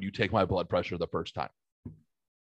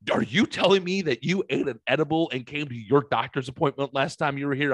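higher, incredulous imitation of the nurse; retold disbelief; 4 semitones higher than usual. Nurse questioning patient about the edible, mock incredulous. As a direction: play the astonished nurse, pitched up. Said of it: "fucking fell out laughing at me".

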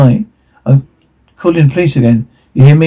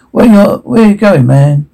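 higher call after a fleeing man; 6 semitones higher than usual. Acted. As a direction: shout it after him as he runs.

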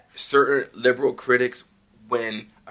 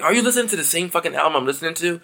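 higher, quick retold outrage; indignant disbelief; 4 semitones higher, faster than usual. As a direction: challenge them, incredulous and fast. Retold outraged reply to critics.

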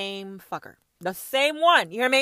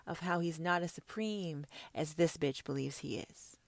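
1 scornful whisper; 4 semitones lower, 10 dB quieter than usual. Real, not acted. Whispered aside.

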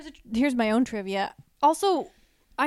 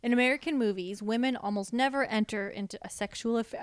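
stiff flat robot voice. Real, not acted. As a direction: read it like a robot. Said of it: "I'm talking like a robot".

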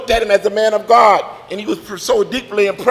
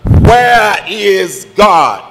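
slow, drawn-out question, slightly louder; a little louder; 4 dB louder, much slower than usual. Acted. Preacher pressing the frightened boy, slower and louder. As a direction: press the question harder, slowly. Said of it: "just a little louder".

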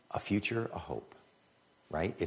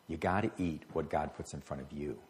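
quieter, lower, letting it sink in; soft echo; 3 semitones lower, 7 dB quieter than usual. Retold or imitated. Preacher echoing the advice to the congregation, soft and low. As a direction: say it again gently, almost to yourself.

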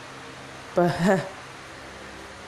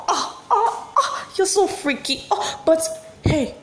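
high, giggling as she teases; giggly; 7 semitones higher than usual. Acted. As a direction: laugh it out, teasing him. Giggling at his touch.

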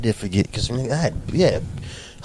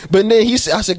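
usual speaking voice

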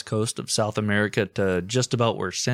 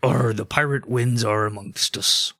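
pirate voice. Pretend. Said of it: "Why am I now talking like a pirate?".

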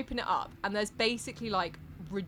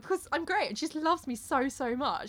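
pleased with himself, pitched up; smug Davy; 5 semitones higher than usual. Retold or imitated. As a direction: brag about being adored. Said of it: "not vain at all".

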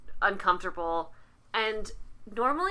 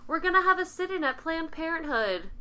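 higher-pitched mocking churchgoer; mock zealot; 5 semitones higher than usual. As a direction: mimic eager protesters, pitched up. Mocking zealous churchgoers' protest plans.

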